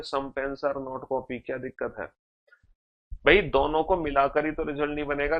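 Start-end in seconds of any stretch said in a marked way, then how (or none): 0.0-1.4 very slow, word by word, reading out a conclusion; slow dictation. Shown as a demonstration. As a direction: spell the conclusion out for students. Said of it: "तो दूसरा conclusion तो hundred percent true है".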